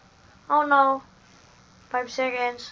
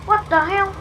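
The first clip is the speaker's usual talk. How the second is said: surprised; 6 semitones higher, 7 dB louder than usual. Real, not acted. Sudden in-game death shock.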